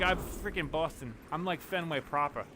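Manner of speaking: lightly mocked Boston pride; retold brag in a Boston accent; Boston friend impression. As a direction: imitate a Boston local's accent. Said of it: "he actually lives near Fenway".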